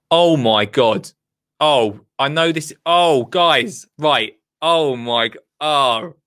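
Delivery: gasping out drawn-out exclamations of excitement; excited. Real, not acted. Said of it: "so exciting".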